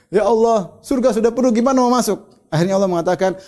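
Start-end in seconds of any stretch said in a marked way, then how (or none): 0.1-2.3 higher-pitched, mock-helpless plea; retold puzzled complaint. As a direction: retell a baffled man's protest, pitched up. Man complains paradise is full.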